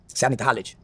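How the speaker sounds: low, hushed voice of a big bodyguard; a low, quiet tough-guy murmur; big guard's voice. Retold or imitated. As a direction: lean in low like a muscle man. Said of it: "He said".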